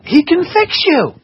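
high, loud burst of conviction; emphatic preaching. Real, not acted. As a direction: proclaim it at full force. Preacher answers the doubter emphatically.

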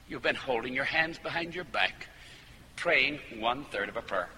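low, gentle pastoral reproof; kindly. Retold or imitated. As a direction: point it out without belittling. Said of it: "I said it kindly".

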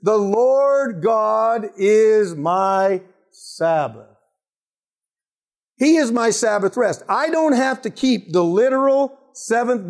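mildly voiced stubborn insistence, stretched out slowly; a people defending its case, drawn out; arguing multitude. Israelites arguing with Moses, lightly voiced stubborn insistence. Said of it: "The multitude argues".

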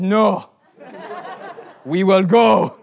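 firm refusal. Retold or imitated. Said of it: "I said".

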